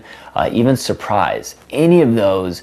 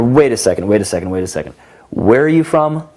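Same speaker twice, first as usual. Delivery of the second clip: mock shock; 4 dB louder than usual. Shown as a demonstration. Coach demos the wait-a-second move, mock shock. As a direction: feign being floored by her answer. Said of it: "what I would call "wait a second".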